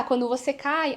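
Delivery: usual speaking voice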